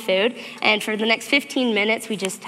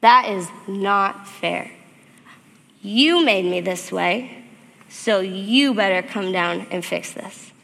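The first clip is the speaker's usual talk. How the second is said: pleading prayer; slower than usual. Retold or imitated. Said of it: "and I said".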